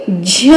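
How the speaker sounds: झ with the vowel hummed through the nose; nasalized vowel. Shown as a demonstration. Teacher showing children chandrabindu, nasalized झ. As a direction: draw out झ as a nasal झँ. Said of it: "इसको हम बोलेंगे".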